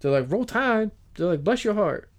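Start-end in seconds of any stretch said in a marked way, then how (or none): 0.3-0.9 put-on Southern accent. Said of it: "yelled at in Southern accent". 1.4-2.1 put-on Southern accent. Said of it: "yelled at in Southern accent".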